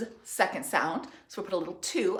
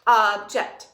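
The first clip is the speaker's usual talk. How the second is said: pounding the word; 9 dB louder than usual. Shown as a demonstration. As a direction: Object said loud and punched, syllable by syllable. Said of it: "Pound with one more time".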